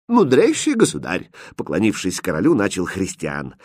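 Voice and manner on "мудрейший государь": high, courtly salutation; formal address. Acted. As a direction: prince respectfully hailing a king. Prince formally addresses the king. (учтиво, торжественно)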